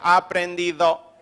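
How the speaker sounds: slow, drawn-out acknowledgement; Juancito. Retold or imitated. Juancito when corrected, slow good-natured acceptance. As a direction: lightly imitate a good-natured learner, slowly. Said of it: "Cuando le corregía decía".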